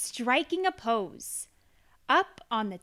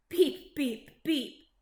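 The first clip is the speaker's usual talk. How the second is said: laughing beeps; 5 dB louder, slower than usual. A narrator's reading. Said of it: "laughed Little Blue".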